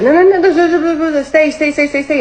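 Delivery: high, loud frantic begging; desperate pleading. Retold or imitated. Begging her manager to stay, high and frantic. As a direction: beg her to stay, over and over. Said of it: "And I was like".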